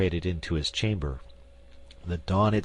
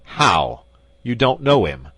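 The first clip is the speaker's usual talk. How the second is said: louder, disbelieving challenge; incredulous loud question; 4 semitones higher, 10 dB louder, slower than usual. A narrator's reading. Commissary confronting the prisoner, loud disbelief. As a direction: demand it in disbelief. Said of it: "commissary incredulous".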